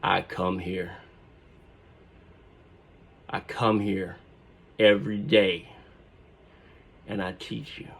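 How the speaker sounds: soft, slow, wounded professor; hurt professor addressing his class quietly; quiet seething. Retold or imitated. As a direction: let each word drop with restraint. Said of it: "raging on the inside".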